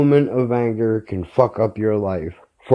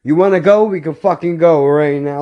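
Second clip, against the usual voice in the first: higher-pitched, heated stand-your-ground challenge; retold anger; 4 semitones higher than usual. Answering a man who wants to fight, heated. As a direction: act out squaring up, voice raised in pitch. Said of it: "In the moment the anger took over".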